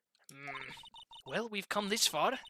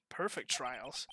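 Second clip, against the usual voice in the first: whispered echo; 7 semitones lower, 10 dB quieter, slower than usual. Acted. Stunned echo of a claim.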